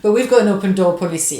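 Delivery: hammed-up American accent, punched out loud. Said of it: "I can't do an American accent".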